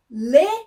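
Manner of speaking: "leão" split into LE, pause, long ÃO; syllable-by-syllable sounding out. Shown as a demonstration. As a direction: call out "leão" in two loud, separated pieces. Teacher sounds out rhyme word. ("leão" silabado, com o ÃO esticado)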